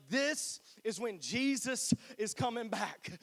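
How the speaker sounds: slow, drawn-out preacher proclamation; mock southern preacher, slow. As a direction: ham up the TV pastor, slowly. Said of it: "the little preacher voice".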